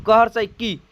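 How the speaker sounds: क हर्षई की with a brief final की; teacher showing the short vowel in की; short i demo. Shown as a demonstration. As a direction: say की and leave it there, unstretched. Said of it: "इतना ही कह करके छोड़ देंगे".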